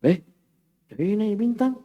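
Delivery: high marvelling exclamation; exclamation mark tune. Shown as a demonstration. Teacher showing how an exclamation sounds. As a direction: sound amazed at the stars. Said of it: "tanda seru".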